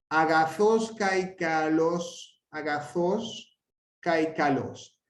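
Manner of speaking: slow, measured AGAZOS CAIKALOS, run on as a phrase; grave accent in phrase. Shown as a demonstration. Teacher modelling Greek accents, slow linked AGAZOS CAIKALOS. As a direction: recite AGAZOS CAIKALOS slowly, AGAZOS leading into what follows. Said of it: "Pero como lo siguen otras palabras".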